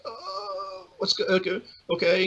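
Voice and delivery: high, stammering confusion; retold fluster. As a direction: stumble into agreeing, startled. Her flustered reaction, acted.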